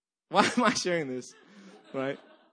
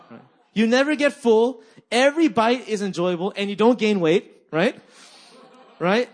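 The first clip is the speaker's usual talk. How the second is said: higher and louder, gushing about the food; excited raving; 4 semitones higher, 8 dB louder than usual. Real, not acted. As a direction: sell the joy of the endless feast. Preacher raves about heavenly meal.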